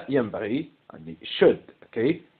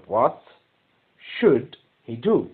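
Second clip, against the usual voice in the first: slow, do stressed; teacher repeating the question slowly for the class, very slow; slow dictation; much slower than usual. Shown as a demonstration.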